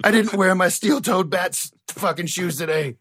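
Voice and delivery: high, loud yelps of pain; pained yelling. Acted. Batman yelling in pain after kicking the table. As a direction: howl over the broken foot. Batman breaks his foot.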